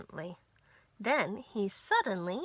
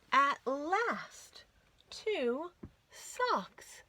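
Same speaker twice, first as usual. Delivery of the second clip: delighted gasp; 4 semitones higher, much slower than usual. Acted. Finding the socks.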